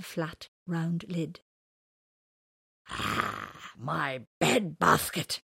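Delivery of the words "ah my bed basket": yawning. Acted. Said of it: "with a yawn".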